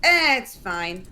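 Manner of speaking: dismissive. Retold or imitated. Mother brushing off her child's advice, dismissive. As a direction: wave the worry away.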